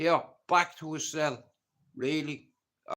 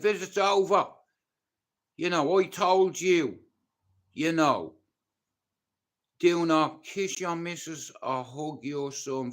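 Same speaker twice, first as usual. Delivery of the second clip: loud barked order, raised high; retold guard's shout; 5 semitones higher, 7 dB louder than usual. Prison guard shouting at him to end the visit, loud order. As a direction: bark it like a prison officer ending the visit.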